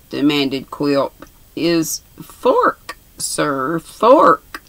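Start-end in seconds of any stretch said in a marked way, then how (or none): 1.5-4.6 insistent. Acted. Swiveller pressing the password on the dwarf, emphatic.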